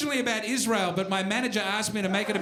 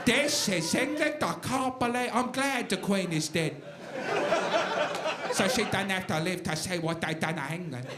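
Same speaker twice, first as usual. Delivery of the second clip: put-on English accent; 4 semitones lower than usual. Acts out a gloomy English person.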